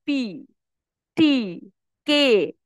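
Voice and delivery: "পি", "টি", "কে" with no puff of air; unaspirated consonants. Shown as a demonstration. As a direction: say "পি", "টি", "কে" the everyday Bengali way, breath held back. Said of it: "আমরা normally পড়েছি". ("পি", "টি", "কে" বাতাস ছাড়া)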